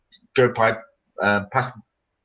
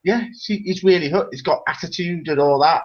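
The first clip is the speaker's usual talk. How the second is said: lightly imitated girlfriend, pitched up; mock an admiring fan, higher voice; smitten girlfriend; 4 semitones higher than usual. Girlfriend defending her crush on a singer, smitten. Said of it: "He went".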